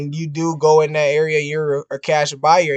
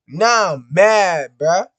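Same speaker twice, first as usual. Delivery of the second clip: mad; 2 semitones higher, 4 dB louder, slower than usual. Real, not acted.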